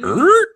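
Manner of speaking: high squeaky stop noise; record scratch. Retold or imitated. Whole shop stops dead, high squeaky record scratch.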